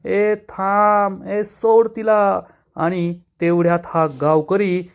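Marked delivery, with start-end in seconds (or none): 0.1-2.4 a slow, stretched call to stop, pitched higher; stretched-out mock yell of stop; drawn-out shout. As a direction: draw each word out long, calling across the yard. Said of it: "Adhalrao जोरात ओरडतात".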